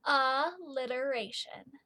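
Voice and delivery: slow with a rising end; slow syllable-by-syllable. Shown as a demonstration. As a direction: stretch the word out, lift the end. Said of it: "One more time".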